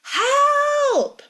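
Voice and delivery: long, high scream for help; loud, drawn-out panicked cry. A narrator's reading. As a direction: scream in terror, voice way up. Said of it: "Brenna screams".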